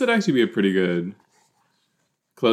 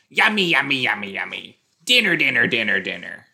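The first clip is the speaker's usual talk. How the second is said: gleeful hungry shark chant; greedy smacking while eating. Pretend.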